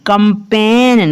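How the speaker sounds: कंपेन stretched slowly, ending on a clean N; silent G. Shown as a demonstration. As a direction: model कंपेन slowly without any G. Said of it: "कंपेन पढ़ना है".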